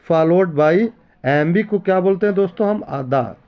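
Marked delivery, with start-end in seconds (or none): 2.8-3.4 "अदा" with weak अ and a pushed, heavy दा; stress on DA. Shown as a demonstration. Teacher showing iambic beat to students, stress on दा. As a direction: say "अदा" light then hit दा. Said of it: "आ से हो गया unstress और दा में बढ़ा के मारा दा".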